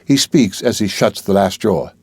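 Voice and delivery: plain reading voice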